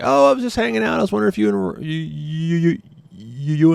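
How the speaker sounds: mock flustered girl. Friend nervously inviting him over, high and stammering. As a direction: squeak it out high and tripping over the words.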